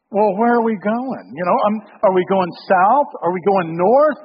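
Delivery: mock-fussy barrage of questions, rising in pitch and volume; making a big deal. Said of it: "I make this whole big deal".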